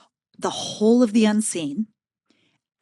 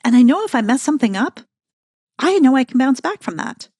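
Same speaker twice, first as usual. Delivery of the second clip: confident self-talk; 4 dB louder than usual. Retold or imitated. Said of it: "I was like".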